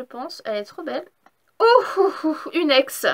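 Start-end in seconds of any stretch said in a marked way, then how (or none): 1.6-3.1 surprised. Real, not acted. Surprised at an ex card.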